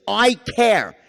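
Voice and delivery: a firm, open "I care"; I care tonality. Shown as a demonstration. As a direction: project the care plainly. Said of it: "So this first thing".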